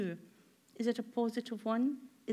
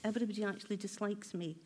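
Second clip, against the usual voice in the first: inner critic voice; 3 semitones lower, 5 dB quieter, faster than usual. Retold or imitated. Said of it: "Is that voice going".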